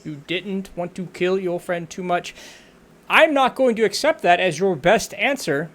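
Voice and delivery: loud stern drill instructor; drill sergeant voice. Acted. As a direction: scold the cadet hard. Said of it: "your drill sergeant voice".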